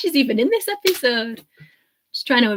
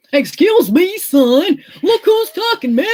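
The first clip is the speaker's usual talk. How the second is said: put-on Texan accent; 7 semitones higher, 5 dB louder, slower than usual. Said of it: "my amazing Texan accent".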